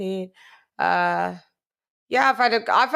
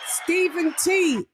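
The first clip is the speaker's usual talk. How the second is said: drawn-out hype shout; 7 semitones higher, slower than usual. Real, not acted. Slow hyped shout.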